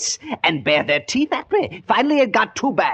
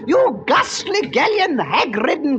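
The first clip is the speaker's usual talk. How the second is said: hammy stage recitation; 4 semitones higher than usual. Acted. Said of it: "Oh, what a performance".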